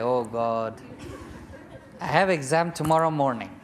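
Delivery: panicked plea. Retold or imitated. Student's panicked prayer.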